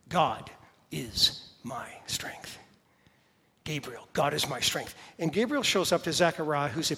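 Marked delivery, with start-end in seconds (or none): 0.1-4.1 hushed whisper, slow and low. Acted. Whispered name meaning.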